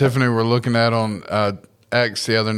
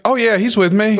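faked friend voice; 10 semitones higher, 3 dB louder than usual. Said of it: "imitate his best friend's voice".

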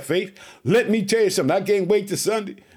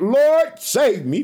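crying out; 5 semitones higher, 4 dB louder, much slower than usual. Acted. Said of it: "And he cried out".

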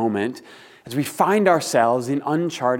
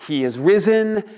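raised Easter proclamation, higher and lifted; liturgical call; 6 semitones higher, 3 dB louder than usual. Shown as a demonstration. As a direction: call it out to the congregation. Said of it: "I'll say the first line".

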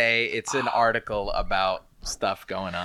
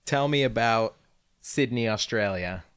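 assistant command; 3 semitones higher than usual. Shown as a demonstration. Co-host asking about Sydney, careful command. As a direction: speak clearly to the phone. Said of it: "she doesn't wanna tell me anything".

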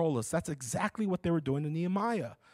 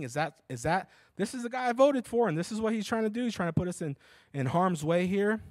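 a lightly voiced worried fifties dad, higher; fifties sitcom dad; 3 semitones higher than usual. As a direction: play the pipe-smoking dad, alarmed. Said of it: "Like the dad from the fifties".

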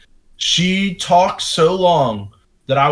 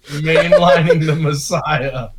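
title read; slower than usual. Shown as a demonstration. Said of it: "has to be an episode title".

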